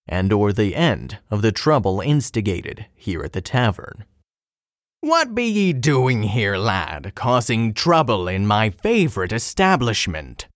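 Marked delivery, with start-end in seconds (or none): 5.0-10.5 pirate captain voice. Acted. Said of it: "muses the captain".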